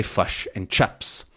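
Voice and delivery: "fush and chups" in New Zealand accent. Shown as a demonstration. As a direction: say fish and chips like a Kiwi. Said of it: "they might say".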